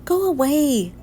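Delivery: sharp annoyed go away. Acted. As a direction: shoo her off irritably. Arthur shooing D W.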